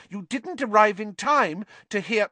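high, earnest explanation. A narrator's reading. Girl explaining to professor before interruption, earnest. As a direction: press the point earnestly. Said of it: "said Hermione earnestly".

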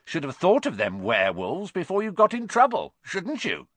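high gleeful gloat; crowing over their trouble. Acted. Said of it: "his voice cracking with glee".

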